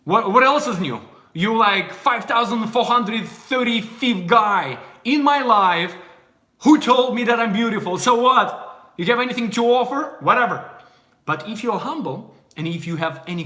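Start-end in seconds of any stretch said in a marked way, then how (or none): 0.0-10.6 mock a bored beauty shrugging off praise; haughty, unimpressed; dismissive scoff. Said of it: "it's kind of like".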